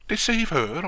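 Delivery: high, incredulous echo; acted affronted question; outraged disbelief. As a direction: throw it back at him, scandalised. Watchman outraged at the plan.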